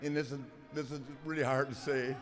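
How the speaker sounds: halting, fighting back tears; real emotion catching in the throat; choked up. Real, not acted. Retiring wrestler to his fans, voice choking up. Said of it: "before I start crying again".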